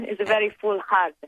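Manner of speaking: light-hearted Italian accent; English spoken with Italian vowels and rhythm. Shown as a demonstration. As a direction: keep up the Italian accent through a chuckle. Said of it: "a bit of an Italian accent right now".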